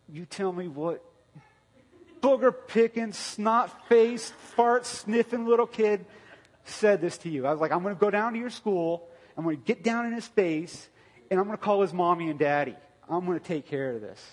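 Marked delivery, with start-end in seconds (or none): 0.1-7.4 much higher and louder furious yell; outraged shout. Retold or imitated. Father retelling his outrage at the boy who mocked his daughter, furious shout. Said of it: "I got outraged". 7.7-14.2 much higher and louder furious yell; outraged shout. Retold or imitated. Father retelling his outrage at the boy who mocked his daughter, furious shout. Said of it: "I got outraged".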